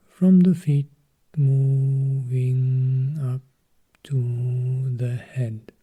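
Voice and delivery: very slow, each word stretched out; slowly guiding attention from head to feet; drawn-out guidance. Acted. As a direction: draw the scan slowly down the body. Slow body scan guidance.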